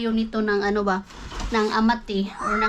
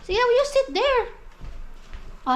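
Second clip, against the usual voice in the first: normal talking voice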